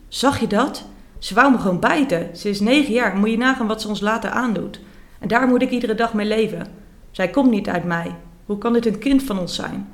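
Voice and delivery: half-hearted mock shout of a parent at the end of her rope; read-aloud yell. Mother yelling at the pharmacist about her daughter, mild mock shout. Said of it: "schreeuwt mama hem toe".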